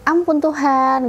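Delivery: slow, lifted cry of mild dismay; dismayed exclamation. Retold or imitated. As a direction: retell a father's shocked plea to God. Retold dismayed father's exclamation.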